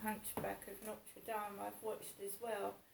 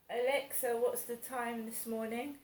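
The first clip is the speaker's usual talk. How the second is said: raised, clear call to the speaker; talking to voice assistant; 3 semitones higher, 6 dB louder than usual. Real, not acted. Calls out to Alexa.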